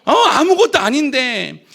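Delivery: surge of courage. Retold or imitated. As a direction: leap up with new courage. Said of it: "용기가 막 샘솟는 거예요".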